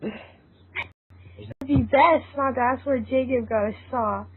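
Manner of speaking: steady storytelling read; story narration. A narrator's reading. Narrator telling the friends' adventure, in a calm storytelling voice. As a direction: narrate the scene evenly for listeners.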